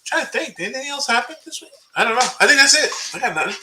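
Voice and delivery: tinny, metallic voice filter; like talking from a tin can; tin can sound. Real, not acted. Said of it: "You sound a little like you're in a tin can".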